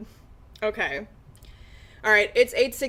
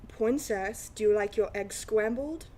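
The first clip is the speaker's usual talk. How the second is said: Elmer Fudd ASMR voice; 5 dB quieter than usual. Pretend. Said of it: "ASMR of Elmer Fudd".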